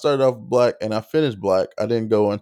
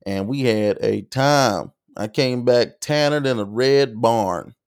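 Southern twang. Retold or imitated. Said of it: "being more comical".

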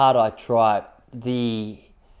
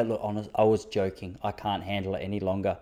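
defeated surrender; 4 semitones lower, 7 dB quieter than usual. Retold or imitated. Giving up to the baby.

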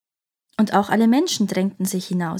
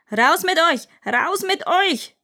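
elephant screaming; 9 semitones higher, slower than usual. Acted. Elephant screams at everyone inside it, high and slow. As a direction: roar them out of your belly. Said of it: "Und dann schrie er".

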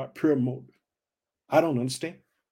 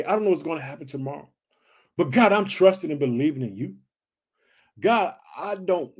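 praying cry; 3 semitones lower than usual. Acted. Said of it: "Those who earnestly cry out to him".

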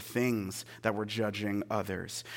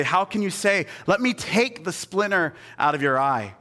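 raised, emphatic retold question; Jesus; 5 semitones higher, 5 dB louder than usual. Preacher quoting Jesus on the splinter, emphatic challenge. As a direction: challenge them with a louder, higher voice. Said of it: "And goes on to say".

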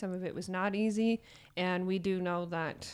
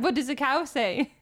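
put-on talking to a baby; 5 semitones higher, 5 dB louder than usual. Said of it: "I said".

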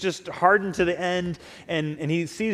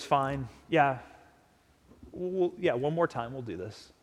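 grudging impatient Jesus. Pretend. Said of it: "kinda arms crossed".

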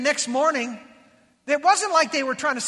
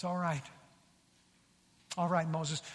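low, soft relenting; quiet acted concession; gracious God; 6 semitones lower, 8 dB quieter than usual. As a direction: give in gently, imitating a merciful God. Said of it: "here we see the grace of God".

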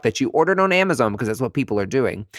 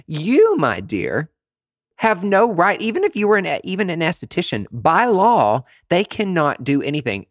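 scolding; 6 semitones higher, 3 dB louder than usual. Real, not acted. Scolding cosmetologists who overstep the law, pitched up and loud. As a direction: scold them, spelling out the law.

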